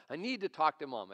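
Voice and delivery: mildly upset, imitated child's plea; upset daughter. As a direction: lightly act an upset daughter insisting. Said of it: "she's really getting upset".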